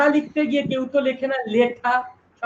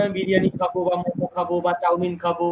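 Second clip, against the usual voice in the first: student's answer; 5 semitones lower, faster than usual. Shown as a demonstration. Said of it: "ওকে বলতে হবে".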